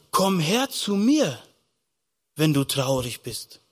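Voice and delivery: slow, gently reassuring; tender invitation. Acted. Preacher voices Jesus comforting the sad, tender and reassuring. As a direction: invite them in slowly, with care.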